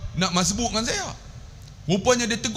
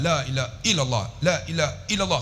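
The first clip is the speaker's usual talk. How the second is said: "la ilaha illallah" rattled through with short vowels; hurried, softer chant-like repeat of "la ilaha illallah"; careless common recitation; 2 semitones lower, 4 dB quieter than usual. Shown as a demonstration. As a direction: rush "la ilaha illallah", not holding the "la". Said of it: "Banyak kita".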